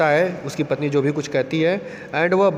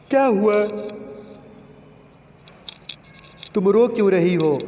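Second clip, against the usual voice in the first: frightened stammer; 5 semitones higher than usual. Retold or imitated. Husband alarmed by his wife's tears, nervous and raised. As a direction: ask nervously, voice jumping up in alarm. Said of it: "डरते हुए पूछता है".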